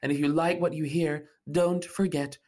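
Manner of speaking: loud, fast promo pitch; loud promo call. Acted. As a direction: sell it loudly.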